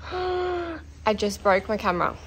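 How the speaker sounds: upset. Real, not acted. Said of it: "I'm so upset".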